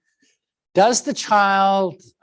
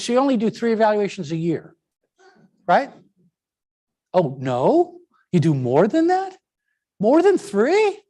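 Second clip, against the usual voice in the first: sarcastic; 3 semitones higher than usual. Acted. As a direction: play dumb, dripping with sarcasm. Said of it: "I'm being sarcastic and facetious".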